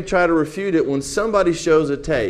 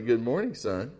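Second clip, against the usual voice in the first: softer, hushed pastor; quietly; 3 semitones lower, 9 dB quieter than usual. A narrator's reading. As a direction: say it softly beside the boy. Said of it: "he said quietly".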